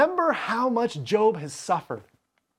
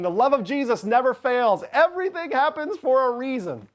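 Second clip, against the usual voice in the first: a touch higher, mocking pious platitude; sing-song churchy mockery; 5 semitones higher than usual. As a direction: lightly parody a preachy church line. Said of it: "Bildad sounds like the church saying".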